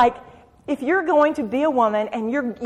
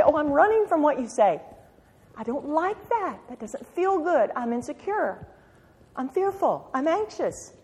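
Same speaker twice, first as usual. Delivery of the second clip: mock anxious voice; 4 semitones higher, 6 dB quieter than usual. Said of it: "you do the fear thing".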